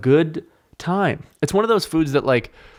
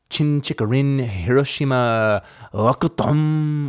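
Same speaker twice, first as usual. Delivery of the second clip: put-on Japanese accent; slower than usual. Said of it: "do that accent".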